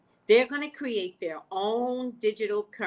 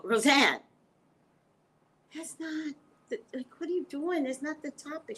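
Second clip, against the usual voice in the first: mock exasperated correction; annoyed host; 6 semitones higher than usual. Imitating the annoyed host correcting Roseanne. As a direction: play the fed-up host, higher. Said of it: "they would go".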